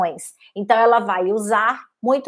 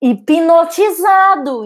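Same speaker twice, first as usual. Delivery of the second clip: slow, higher and louder, stretched out; drawn-out hypnotic word; 6 semitones higher, 6 dB louder, much slower than usual. Shown as a demonstration. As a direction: draw the word out as if lulling them under. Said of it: "com a entonação da voz, com o volume, com o ritmo".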